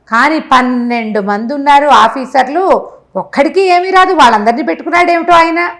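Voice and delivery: gushing with wonder about the king; farmer marvelling to wife. Retold or imitated. The farmer tells his wife, amazed and gushing.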